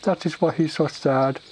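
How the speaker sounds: high, slow, loud ogre voice; simple-minded ogre, hopeful. Acted. Ogre pleading for his sad friend Tim, hopeful. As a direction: plod through it like a dim ogre.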